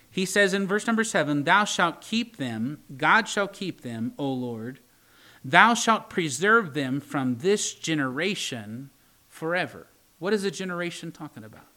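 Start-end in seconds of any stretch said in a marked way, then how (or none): 1.5-9.9 slow, measured King James reading; scripture reading. Acted. Preacher reading Genesis to his congregation, slow and solemn. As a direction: read it out like holy writ. Reads Psalm verse seven.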